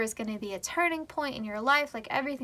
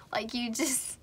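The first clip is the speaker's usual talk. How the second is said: whispered through laughter; 6 dB quieter than usual. Real, not acted. Laughing aside to viewers.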